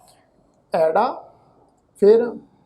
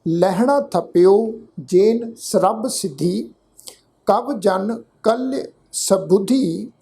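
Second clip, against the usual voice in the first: slow, drawn-out verse; measured Gurbani recitation; scripture recitation; slower than usual. Shown as a demonstration. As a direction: recite word by word with long vowels.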